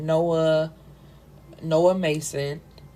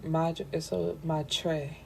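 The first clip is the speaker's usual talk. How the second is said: quiet tries at madre with a rolled Spanish r; mumbling "madre" to herself, testing a Spanish r; trying madre; 7 dB quieter, much slower than usual. Shown as a demonstration. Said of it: "I don't have a French accent".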